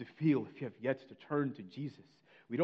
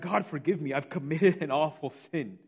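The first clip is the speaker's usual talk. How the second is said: raised, louder plea for forgiveness; preacher re-enacting a guilt-stricken outcry; crying out; 3 semitones higher, 6 dB louder than usual. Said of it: "he begins to cry out".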